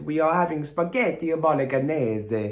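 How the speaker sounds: put-on comic Italian accent with extra vowels on the ends; bad Italian accent. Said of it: "rubbish accent".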